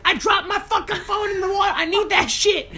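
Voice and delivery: imitating the girlfriend fretting over her phone; whiny girlfriend voice. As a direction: squeak it out like a spoiled girl. Girlfriend whining about phone.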